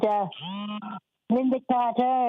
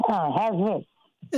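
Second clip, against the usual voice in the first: talking through a muffled phone line; 3 semitones lower than usual. Real, not acted. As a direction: voice muffled as if hand over mouth. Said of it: "still kinda muffly".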